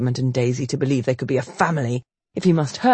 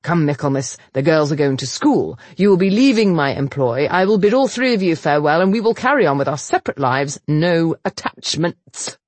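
firm last stand. Acted. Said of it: "one last stand".

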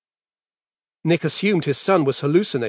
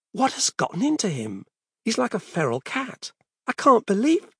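frantic; 9 semitones higher than usual. Acted. Struggling, bewildered father.

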